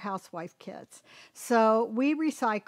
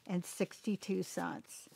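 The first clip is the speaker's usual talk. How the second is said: whisper; 4 semitones lower, 11 dB quieter than usual. Real, not acted. Whispered price punchline.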